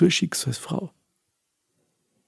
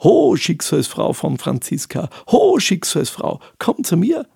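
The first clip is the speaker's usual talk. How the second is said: loud, rising call up the mountain; hollering for the fate woman; 3 semitones higher, 6 dB louder than usual. Acted. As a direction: call her out of hiding, higher and louder. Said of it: "hat gerufen".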